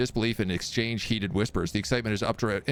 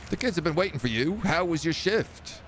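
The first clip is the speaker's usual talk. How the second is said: lightly voiced wife, a touch higher; loving wife; 7 semitones higher than usual. Wife greets her husband home in a lightly higher voice.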